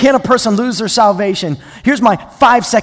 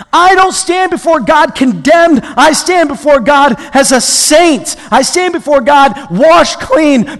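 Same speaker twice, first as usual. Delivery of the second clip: forceful, emphatic pulpit delivery; impassioned preaching; 6 semitones higher, 8 dB louder than usual. Real, not acted. Preacher urging the congregation to trust Christ's sacrifice, impassioned. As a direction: drive each point home to the congregation.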